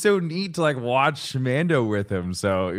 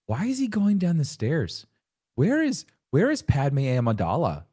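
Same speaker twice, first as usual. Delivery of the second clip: lightly mimicked kid's questions, pitch swooping up; imitated curious child; 4 semitones higher than usual. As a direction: pester with questions like a little kid. Acted child's questions during the show.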